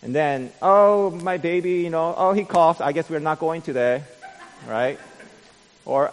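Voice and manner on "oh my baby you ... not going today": a lightly voiced parent fussing over a baby; hammed-up whiny excuse, a bit higher and louder; mock excuse. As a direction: churchgoer making a half-hearted excuse to skip service. Mimics churchgoer's lame excuse.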